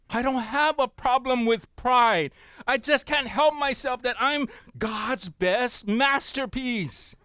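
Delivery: high-pitched, loud, hammed-up boast; proud boasting. Preacher voicing what a proud person may say, hammed-up boasting.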